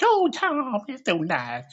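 high, gushing fan voice; swooning mom. Retold or imitated. Mom gushing to a famous singer after a hand kiss, high. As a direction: swoon over him, pitched high. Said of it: "she's like".

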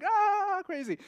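high-pitched giddy cry; mock hilarity. Friends laughing crazily in the car, mock hilarity. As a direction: act out friends whooping it up.

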